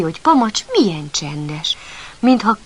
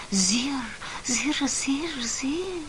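soft whispered zirr, rising higher; firefly buzz; 6 semitones higher, 9 dB quieter, much slower than usual. Acted. Narrator imitates the little beetle buzzing around, soft buzz. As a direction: buzz it softly like a tiny bug flying past. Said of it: "röpködött így".

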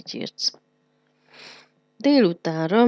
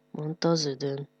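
ordinary delivery

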